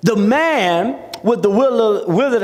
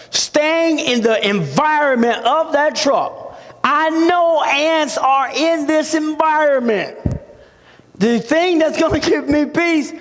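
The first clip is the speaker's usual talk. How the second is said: high-pitched, insistent sermon delivery; emphatic preaching; 9 semitones higher than usual. Real, not acted. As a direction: preach it with rising urgency. Preaches at full force.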